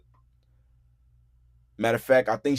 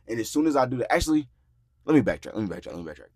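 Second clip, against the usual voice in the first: ordinary delivery, nothing marked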